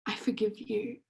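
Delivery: softly, almost under breath; a quiet, tender I forgive you; soft forgiveness. Retold or imitated. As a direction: say it gently to her family's killer. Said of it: "she says".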